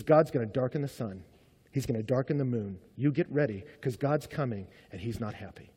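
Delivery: quietly foretell doom, pitched low; grave prophet's warning sinking away; ominous prophecy. Retold or imitated. Prophet's warning of coming judgment.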